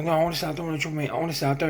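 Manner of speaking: lightly imitated timid appeal; mock scared pleading. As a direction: act like someone backing away from trouble. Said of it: "looking like a proper pussy".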